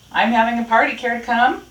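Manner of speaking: friendly raccoon. A narrator's reading. Raccoon invites Rat to a party, high and friendly.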